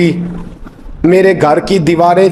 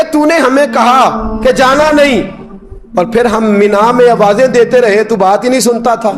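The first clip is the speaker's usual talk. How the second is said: complaining pilgrim; 7 semitones higher than usual. Retold or imitated. Pilgrim complains he didn't answer.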